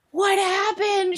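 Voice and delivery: high, slow, stunned cousin; drawn-out bewildered what happened; imitating cousin. Cousin startled at the accent, high and slow. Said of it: "she was just like".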